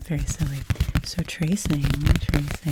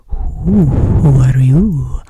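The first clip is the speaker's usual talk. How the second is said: louder hooting owl, slow drawn out who; playful owl hoots; 16 dB louder, much slower than usual. Pretend. Host voicing her stuffed owl Thane, a playful hoot.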